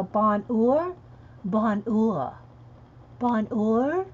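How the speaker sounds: bonheur said with no H, pan-NUR; sounding out bonheur the French way; trying French bonheur aloud; French pronunciation. Shown as a demonstration. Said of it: "There's no H in, in French".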